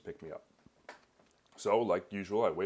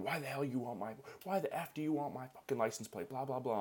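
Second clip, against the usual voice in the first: mock angry yell; 6 semitones higher than usual. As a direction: imitate an angry driver, voice raised in pitch. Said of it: "Starts yelling".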